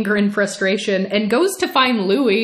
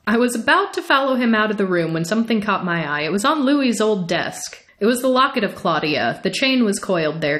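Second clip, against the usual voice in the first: measured audiobook reading of a vampire novel; story narration. A narrator's reading. Reading a novel passage aloud to viewers, steady story narration. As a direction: read it like an audiobook, even and unhurried.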